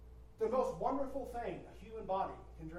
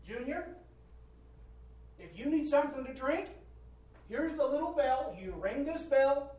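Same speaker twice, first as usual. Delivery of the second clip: slightly higher, measured talk to an infant; parent coaxing baby; 4 semitones higher than usual. Pretend. Parent explaining a bell to baby Junior, mock coaxing. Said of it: "You can say".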